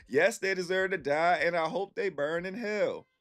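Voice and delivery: high, hammed-up villain laugh and curse; gleefully damn the company like a cartoon villain; mock evil curse. Cursing his old company, hammed-up evil glee.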